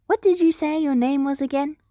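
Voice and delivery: high, bright questioning principal voice; an inquisitive little principal probing; Nedzu's voice. Acted. Nedzu asks the stranger her name, high and curious.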